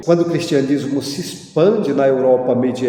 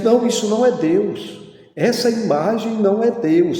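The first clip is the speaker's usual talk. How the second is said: higher-pitched, imitated protest; acted insistent denial; 7 semitones higher than usual. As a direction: play someone firmly correcting a misunderstanding.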